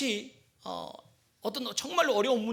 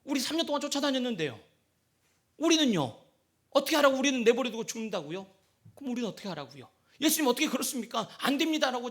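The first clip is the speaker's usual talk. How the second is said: Peter protesting; faster than usual. Acted. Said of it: "베드로가".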